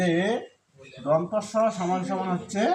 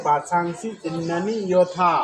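slow recitation; slower than usual. Shown as a demonstration. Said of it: "লিখলাম অন্ত্যেষ্টি জর জায়গায় ইয়".

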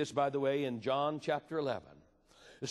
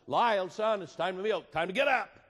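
father's wake-up call; 3 semitones higher, 5 dB louder than usual. Retold or imitated. Dad calling son to milk.

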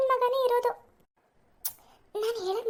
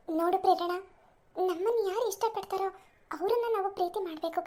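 softer, calm counsel to a friend; gentle advice; 4 semitones lower, 4 dB quieter than usual. Acted. Bhavana counsels Prerana about forced marriage, soft and calm. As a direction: talk her round kindly and quietly.

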